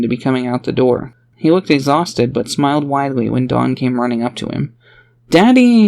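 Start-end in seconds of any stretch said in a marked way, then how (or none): 5.3-5.9 high, loud excited cry of Daddy; excited child. Acted. A little girl runs up to her father, excited shout. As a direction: call out to him thrilled. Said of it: "she said with excitement".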